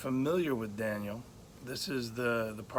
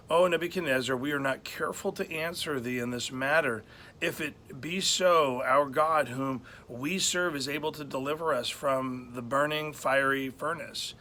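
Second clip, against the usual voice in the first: scripture reading. Acted. Preacher reads the boys' bold answer to the king, solemn and raised. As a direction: proclaim the old verse with weight. Reads verse seventeen aloud.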